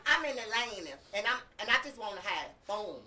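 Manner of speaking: halting try at an Atlanta accent; Atlanta accent attempt. Shown as a demonstration. Co-host insisting she did it right, attempted Atlanta accent. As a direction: lightly put on Atlanta vowels in "fun". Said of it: "get the Atlanta accent".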